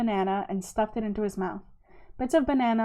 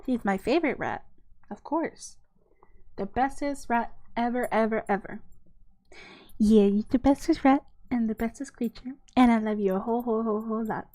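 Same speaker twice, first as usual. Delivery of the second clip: doting pet talk. Real, not acted. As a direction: gush fondly over a beloved pet. Dotes on a pet rat.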